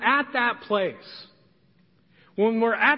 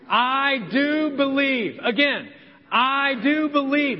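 slow, "do" stressed, raised; congregation call; 3 semitones higher, slower than usual. Shown as a demonstration. Pastor leading the congregation in the father's words, slow. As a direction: lead the room in "I do believe", slowly. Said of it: "Let's all say that together out loud".

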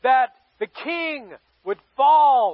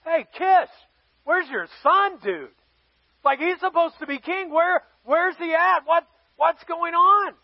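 mock exasperated questioning, pitched up; acted frustration, higher voice; kind of frustrated; 4 semitones higher than usual. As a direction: demand answers from a dad, mildly annoyed. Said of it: "Samuel's kind of frustrated".

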